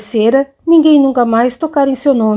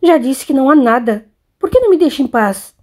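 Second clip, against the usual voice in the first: a touch of irritation, the question pushed up and faster; huffing retort; 2 semitones higher than usual. Acted. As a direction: mildly snap back at a nagging mother. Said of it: "bufando, revidou".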